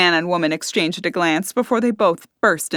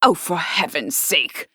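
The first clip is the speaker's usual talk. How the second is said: slow, fed-up groan; exasperated groan; slower than usual. A narrator's reading. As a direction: groan it, worn out by her. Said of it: "Henrietta groaned".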